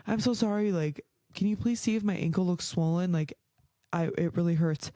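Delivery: sweet, polite, apologetic asking; gently pleading, overly polite; way nicer. Retold or imitated. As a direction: ask as nicely as you can. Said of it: "way nicer than that".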